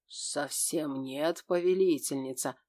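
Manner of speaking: тихо, медленно, с хитрой усмешкой; коварная ухмылка. Acted. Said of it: "коварно ухмыльнулся демон". (коварно, с ухмылкой)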